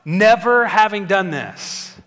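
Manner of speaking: fast, rising panicked complaint; panicked Israelites. Retold or imitated. Pastor voicing the Israelites' panic at Moses, fast and rising. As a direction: rattle it off like a frightened crowd. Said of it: "they're like".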